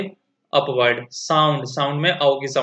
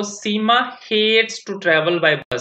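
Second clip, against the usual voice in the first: slow, deliberate passage reading for students; slow read-aloud; 4 semitones higher, much slower than usual. Shown as a demonstration. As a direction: read the sentence out word by word for the class. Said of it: "पढ़ते हैं इसको". (कक्षा के लिए धीरे-धीरे पढ़कर सुनाना)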